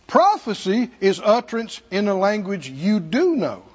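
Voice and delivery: "do" lifted and leaned on; stress on do. Real, not acted. Preacher contrasting prophecy with tongues, stress on "do". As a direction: punch the word "do" against "don't". Contrasts two kinds of utterance.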